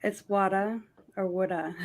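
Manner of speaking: "woulda" for water in a Massachusetts accent, r dropped. Shown as a demonstration. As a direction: say "woulda" the Boston way. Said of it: "That's how you'd say it in Massachusetts".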